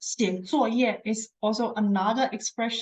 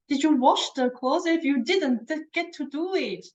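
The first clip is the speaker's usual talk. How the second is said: higher, demanding nagging wife; mock angry wife; 5 semitones higher than usual. Angry wife ordering husband to do the washing, mock nagging. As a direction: demand he go do it, pitch pushed up. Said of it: "this kind of feeling".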